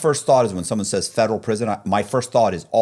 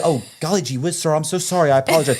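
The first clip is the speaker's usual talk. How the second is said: fake polite; 4 semitones higher than usual. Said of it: "I could do the".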